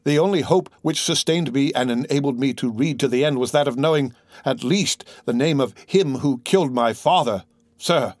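lightly acted anguish of a son; anguished plea. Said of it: "cried Franz".

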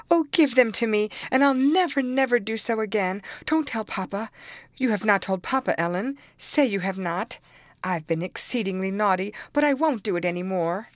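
put-on girl begging her nurse not to tell papa; pleading. A narrator's reading. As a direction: beg for mercy with rising panic.

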